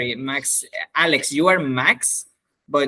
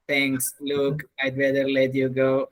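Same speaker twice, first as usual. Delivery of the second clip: robotic; 2 semitones lower, 4 dB quieter than usual. Retold or imitated. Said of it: "your intonation was a bit robotic".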